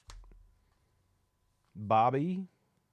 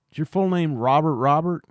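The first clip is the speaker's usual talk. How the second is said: incredulous; 6 semitones higher, 12 dB louder than usual. Acted. Incredulous investigator questioning NPC.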